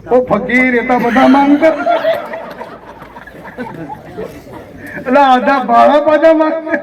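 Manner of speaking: pointed pulpit rebuke; indignant preaching. Acted. Preaches indignantly against customs.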